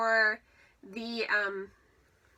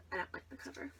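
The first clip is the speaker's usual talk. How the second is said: muttering; 2 semitones higher, 12 dB quieter, faster than usual. Real, not acted. Muttered confession.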